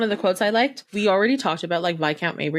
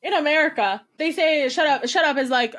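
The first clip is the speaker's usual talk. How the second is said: flustered minister; 7 semitones higher than usual. Retold or imitated. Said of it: "He's like".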